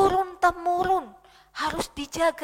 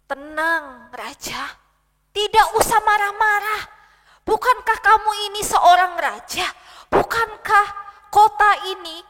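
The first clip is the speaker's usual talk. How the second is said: soothing queen; 2 semitones higher, 3 dB louder than usual. Acted. Queen soothes angry king.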